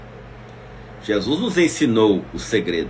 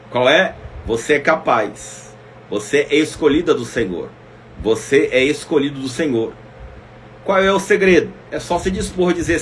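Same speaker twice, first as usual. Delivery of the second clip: ordinary talk, nothing marked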